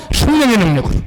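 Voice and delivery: normal talking voice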